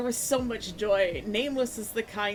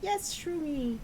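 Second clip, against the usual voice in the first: higher, lightly voiced dreamy mushroom girl; 8 semitones higher, slower than usual. Girl shroomy answering my question, higher mushroom voice. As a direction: answer as a contented little mushroom. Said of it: "she's like".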